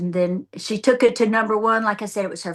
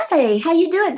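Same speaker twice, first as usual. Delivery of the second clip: mock sweet greeting; 9 semitones higher, 5 dB louder than usual. Greeting retold again, high.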